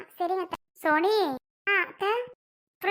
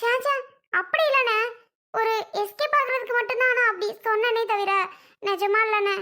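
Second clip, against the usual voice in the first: higher-pitched, hurried-to-explain protest; flustered denial; 4 semitones higher than usual. Acted. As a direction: protest urgently to your brother. அண்ணனிடம் பதறி மறுக்கிறாள். (பதற்றமாக மறுத்தல்)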